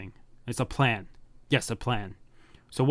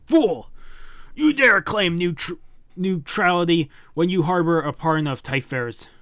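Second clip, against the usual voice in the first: much higher, louder enraged roar; furious villain; 4 semitones higher, 4 dB louder than usual. Acted. Villain rages at the neutral leader, loud and enraged. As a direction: berate him with contempt.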